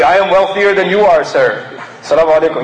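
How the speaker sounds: blunt boast. Retold or imitated. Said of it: "You're not saying directly".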